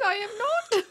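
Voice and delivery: high, hammed-up fake sob; mock crying. Lamenting she failed the British quiz, mock crying. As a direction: pretend to weep over failing.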